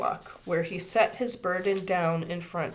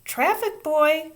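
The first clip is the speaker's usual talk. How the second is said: raised calling voice, drawn out; 10 semitones higher, 7 dB louder, slower than usual. A narrator's reading. Teacher calling a traffic boy across the street, loud. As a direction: call across the street to him. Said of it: "Miss Binney called out".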